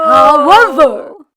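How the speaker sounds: slow, loud, drawn-out however; rabbi voice. Acted. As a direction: raise a finger and pause. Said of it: "raising a finger".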